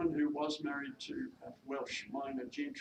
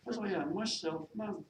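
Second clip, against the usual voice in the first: higher-pitched Welsh maid, unraised; attempted Welsh accent; 7 semitones higher, 3 dB louder than usual. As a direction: defend your sweetheart in a Welsh accent. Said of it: "my attempt at a Welsh accent".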